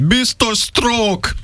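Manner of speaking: high-pitched, drawn-out mock yell; retold shout. Retelling a sick friend's helpless cry, mock shouting. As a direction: cry it out slowly, high, without real volume. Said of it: "csak annyit tudott kiabálni".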